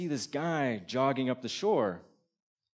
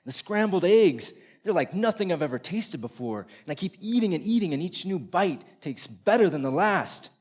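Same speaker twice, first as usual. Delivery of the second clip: higher-pitched, carried away by the food; mounting rapture; 5 semitones higher, 3 dB louder than usual. Acted. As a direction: tell it as if swept up in an eating frenzy. Telling of a greedy eating frenzy.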